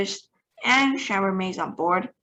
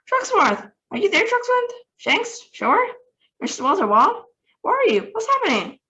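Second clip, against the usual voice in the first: higher, anxious calls into the radio; frantic calling; 12 semitones higher, 3 dB louder than usual. A narrator's reading. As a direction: call each name, growing frantic. President calling lost astronauts.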